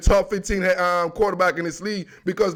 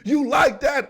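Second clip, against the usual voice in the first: catchphrase shout; 5 semitones higher than usual. Retold or imitated. Quoting Kirk Cousins catchphrase.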